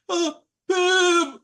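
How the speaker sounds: high, loud exasperated outburst. Acted. Game master voicing Pim's exasperated battle cry, exasperated. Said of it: "so Pim exasperatedly goes".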